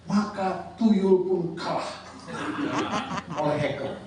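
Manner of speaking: laughing. Real, not acted. Joke about hackers beating tuyul.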